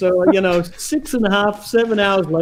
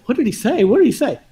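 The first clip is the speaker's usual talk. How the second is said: mildly frantic, higher-pitched questioning; retold frantic urgency; 4 semitones higher, faster than usual. Player rewinding his answering machine tape, mildly frantic. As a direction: recall an urgent need to know. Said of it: "So I'm furiously rewinding the cassette".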